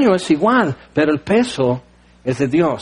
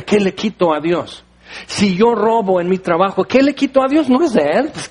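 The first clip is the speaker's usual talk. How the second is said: indignant complaint. Retold or imitated. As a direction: whine why God meddles, pitched up. Voicing people's complaint against God. (queja indignada fingida, más aguda)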